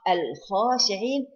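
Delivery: slow Al-khashi'in with a clear L; lam pronounced. Shown as a demonstration. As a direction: say Al-khashi'in slowly, lam kept before kh. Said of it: "it is lam qamariya".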